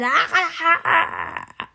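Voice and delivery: high, loud monster ahs; monster yelling. Acted. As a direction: yell to frighten, climbing high. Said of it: "the monster roars and yells and he screams".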